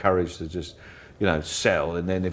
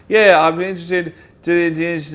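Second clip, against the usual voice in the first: mock sales enthusiasm; 9 semitones higher, 8 dB louder, slower than usual.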